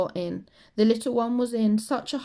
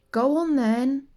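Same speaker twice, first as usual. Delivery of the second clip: sighing; 5 semitones higher, 6 dB louder than usual. Acted. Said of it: "sighed Missus Large".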